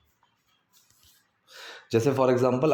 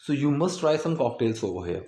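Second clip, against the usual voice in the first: slow model sentence; much slower than usual. Shown as a demonstration. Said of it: "repeat model".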